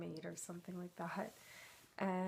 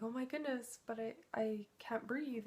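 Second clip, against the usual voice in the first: mock panic; 5 semitones higher than usual. Retold panic under water.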